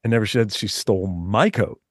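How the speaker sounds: my pressed, the rest even; my coat, not hers; stress on my. Shown as a demonstration. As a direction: lean on the word my.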